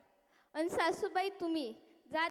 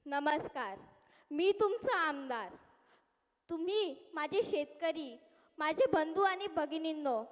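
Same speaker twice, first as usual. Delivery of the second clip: politician's speech. Acted. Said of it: "साहेब आले".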